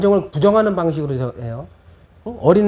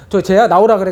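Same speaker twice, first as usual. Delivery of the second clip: louder, demanding call-out; mock angry father; 2 semitones higher, 6 dB louder than usual. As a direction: storm over and call the kid out. Angry father confronting other kid. (남의 집 아이를 부르는 화난 아빠 흉내)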